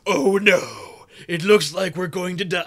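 mocking Ironside. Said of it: "Michael fucking Ironside's there going like".

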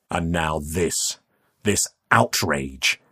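slow, weighted disapproval; a touch of cold outrage, word by word; stern indignation. Acted. Man confronts youth over smashed coffins, sternly indignant.

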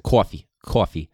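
imitating a professor's heavy Brooklyn accent; a light mock Brooklyn accent. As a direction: do the Brooklyn lecturer going on about coffee. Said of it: "heavy Brooklyn accent".

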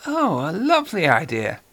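lightly voiced suave villain; a hint of a genteel British horror actor; Peter Cushing voice. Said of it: "Peter Cushing as Major Benedek".

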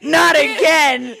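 slow, high laughing groan. Real, not acted. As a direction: moan it through laughter. Laughing at the misread.

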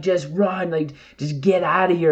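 high-pitched, mock-frantic warning; retold frantic yell. Hiker warns team members away from a bear, mock frantic yell. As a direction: imitate yelling at teammates without full volume. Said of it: "I'm yelling, I'm freaking out".

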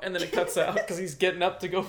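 ordinary delivery

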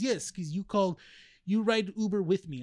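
imitated Russian-accented broken English. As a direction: insist in a light mock Russian accent. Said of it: "it sounds like a Russian accent".

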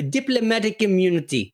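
party-piece South African accent; film-quote style South African accent. Shown as a demonstration. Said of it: "couple of things I can personally do in a South African".

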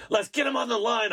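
bursting to start the call; excited. Real, not acted. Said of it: "I'm so excited".

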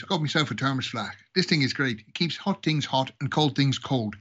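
put-on Irish joke voice; proud Irishman showing off, in a brogue; Irish accent. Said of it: "the Irish was the thick guy".

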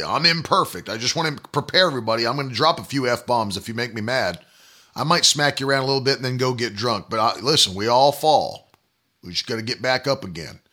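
low, muttered parody of self-excusing believers; mock excuse-maker. Preacher voicing people preparing everybody for their failings, mocking. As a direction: rattle off excuses in a low put-on voice. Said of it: "just like preparing everybody".

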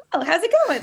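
high, bright greeting as the dog; voicing the chihuahua greeting strangers; cheery dog voice. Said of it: "she'll be like".

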